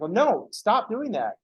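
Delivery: slow high mock complaint; mock protest. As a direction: plead slowly in mock dismay. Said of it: "It's like".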